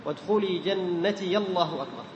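a vowel after the ya of جنتي; open ya. Shown as a demonstration. Teacher sums up takbir join, open ya. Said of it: "تكون الياء مفتوحة".

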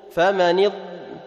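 slow اض stopped on a full ض; held clear Dad. Shown as a demonstration. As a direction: stretch and sound the Dad ending اض. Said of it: "تظهر الضاد".

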